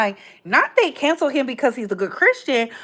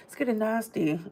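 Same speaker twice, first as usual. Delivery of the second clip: hushed; 10 dB quieter than usual. Shown as a demonstration. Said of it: "repeats the line three ways".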